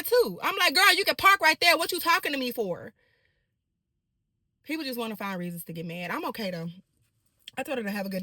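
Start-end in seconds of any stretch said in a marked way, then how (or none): 0.7-2.9 put-on higher, louder, exasperated girl; sassy telling off. Telling the driver to park elsewhere, exasperated. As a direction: wave her toward the free spot, annoyed.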